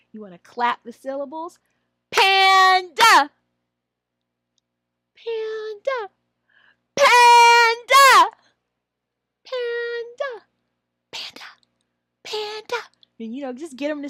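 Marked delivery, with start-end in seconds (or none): 2.1-12.8 "Panda" repeated with big jumps in loudness; high, low, silly voices. Shown as a demonstration. Trainer drills "Panda" in high, low and silly voices. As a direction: play with the word in varied silly voices. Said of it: "High, low, silly voices".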